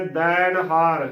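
ਦੈਣ ਹਾਰ with an open "dain", falling; full-voiced vowel. Shown as a demonstration. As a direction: give ਦੈਣ ਹਾਰ a full "ai" in the first syllable. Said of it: "ਭਰ ਕੇ ਬੋਲਣਾ ਹੈ".

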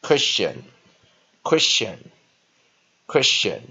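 Christian slowly, ending in "shun"; slow model pronunciation. Shown as a demonstration. Teacher drilling a new word, slow, careful Christian. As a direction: repeat Christian clearly, pausing between each. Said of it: "T I O A N as".

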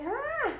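short, high "ah" cry; high-pitched squeal. Pretend. Playing up his bigger size.

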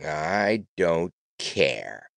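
slow, sullen brush-off; surly. Acted. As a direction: drag it out, grumpy and unbothered. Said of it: "in a surly tone".

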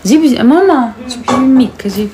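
calling out to mom. Real, not acted.

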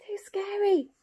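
high, whispery pretend fright; scared. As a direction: squeak it as the frightened bear. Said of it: "the bear's scared of the boy".

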